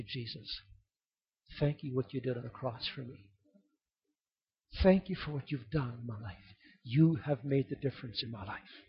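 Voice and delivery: a barely voiced thanks through tears; tearful thanks. Believer thanking Jesus face to face, hushed and tearful. With tears coming from our eyes.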